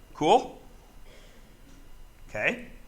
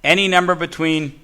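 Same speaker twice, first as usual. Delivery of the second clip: slower, each word spelled out; over enunciating. Shown as a demonstration. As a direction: say "Any number between" slowly and clearly. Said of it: "I'll say it slower".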